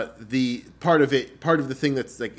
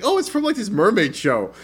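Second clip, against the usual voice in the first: put-on girlfriend voice; 10 semitones higher, 6 dB louder than usual. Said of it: "It's like".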